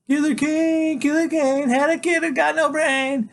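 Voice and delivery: high, loud, slow jeering chant; kids shouting taunts. Acted. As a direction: jeer it loud and high like a rowdy classmate. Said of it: "the kids are shouting stuff like".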